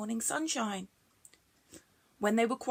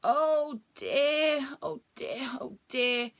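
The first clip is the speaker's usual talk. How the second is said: mild fretting; 4 semitones higher, much slower than usual. Acted. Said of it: "cried Bronglae".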